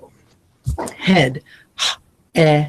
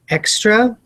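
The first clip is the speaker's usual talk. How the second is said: raised opening word; 5 semitones higher, slower than usual. Shown as a demonstration. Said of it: "So you enunciate and say".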